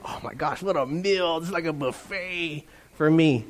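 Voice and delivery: a hushed, mock-amazed mouse; delighted mouse. Mouse stumbling onto the peanut butter, lightly voiced delight.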